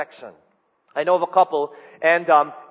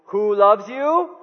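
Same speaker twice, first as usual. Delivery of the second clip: tender slow; 3 semitones higher, 4 dB louder, much slower than usual. Retold or imitated. Father tucking sons in.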